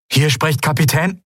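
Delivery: high, urgent stranger's voice; frightened ship captain calling; desperate distress call. Acted. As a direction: plead for rescue over static.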